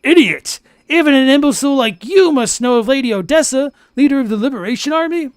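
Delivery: high, loud berating; angry boss voice. Acted. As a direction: scold him hard as the boss. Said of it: "I need to use my Jagnot voice".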